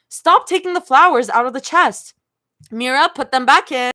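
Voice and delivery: a hint of an exasperated parent; tired parent. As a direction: scold like a weary parent. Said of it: "like a tired parent".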